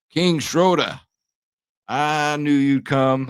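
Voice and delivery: theatrical villain welcome, stretched slow; broken Matt Hardy voice. Pretend. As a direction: draw it out like a deranged ring announcer. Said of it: "We used to do the broken Matt Hardy gimmick".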